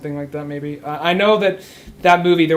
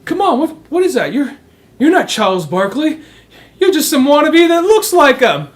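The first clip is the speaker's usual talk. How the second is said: much higher, louder mocking kid shout; laughing kids chasing him away; kids yelling; 11 semitones higher, 7 dB louder than usual. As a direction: yell him off the court. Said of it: "Just start yelling at him".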